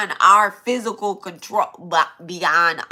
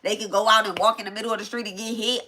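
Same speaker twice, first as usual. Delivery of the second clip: mock angry rant; 4 dB quieter, faster than usual. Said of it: "whatever mean shit that you threw out there while you were mad".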